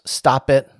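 firm repeated quoted order; all-caps emphasis. Retold or imitated. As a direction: punch both words. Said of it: "all caps".

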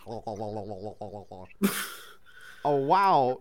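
stunned, stammering gasp of wonder; astonished stammer. Acted. Narrator voicing the astonished hero meeting the robot, stammering. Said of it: "you finally manage to stammer".

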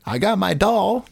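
high Southern twang; goofy Alabama drawl; Alabama accent. Pretend. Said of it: "he's suddenly from Alabama".

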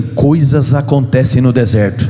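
low, slow prophetic declaration. Shown as a demonstration. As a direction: proclaim it slowly like a prophet. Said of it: "vai falar com um tom profético".

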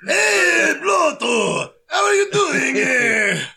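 high, hammed-up Fargo accent; cartoon Fargo cousins calling to each other. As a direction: play it big in a mock Fargo accent. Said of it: "I'm Watto's cousin".

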